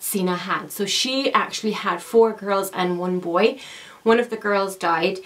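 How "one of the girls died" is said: breathless after running upstairs; out of breath. Real, not acted. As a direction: talk while catching your breath. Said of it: "Sorry, I'm out of breath".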